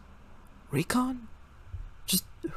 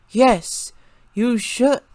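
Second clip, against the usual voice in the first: pointed agreement; 10 semitones higher, 5 dB louder, much slower than usual. A narrator's reading. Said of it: "about to make a retort".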